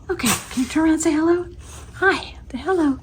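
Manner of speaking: high, fast cooing pet voice. Real, not acted. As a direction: coax the pet sweetly. Coaxing pet to greet camera.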